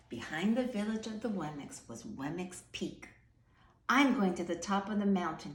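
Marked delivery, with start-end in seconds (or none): 3.9-5.5 louder boastful call; shouting. Acted. The mayor shouting to the Wemmicks, racing to be first. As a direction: announce it to beat everyone. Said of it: "he shouted".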